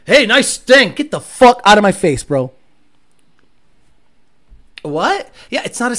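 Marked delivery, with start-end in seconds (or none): 0.0-0.9 mock compliment. Someone complimenting the car. 0.9-2.5 mock angry. Reply to Stang compliment.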